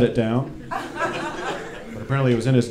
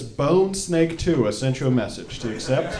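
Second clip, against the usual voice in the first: mock message readout; 3 dB quieter than usual. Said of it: "the message says".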